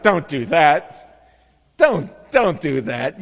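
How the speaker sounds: loud, slow warning to a movie character; shouting at the screen. Retold or imitated. Viewer scolding a horror movie character, loud and slow. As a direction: yell at the screen.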